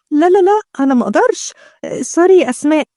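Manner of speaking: high, prissy refusal; dainty bride. Acted. Bride refusing Asmaa's food, daintily high. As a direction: play a pampered bride declining.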